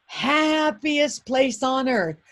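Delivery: slow, stretched-out slogan voice; drawn-out park slogan. Retold or imitated. Disney staff welcoming visitors, mock slow slogan voice. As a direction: draw out every word like a theme-park pitch. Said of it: "and they said, "It's the".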